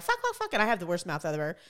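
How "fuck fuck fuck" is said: retold swearing. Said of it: "and I'm like".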